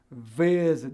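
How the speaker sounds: "Visit" with the force on the first syllable, VI-sit; stress on VI. Shown as a demonstration. Teacher showing where stress falls, VI in "Visit". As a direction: lean long on VI in "Visit". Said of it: "a força tá no vi".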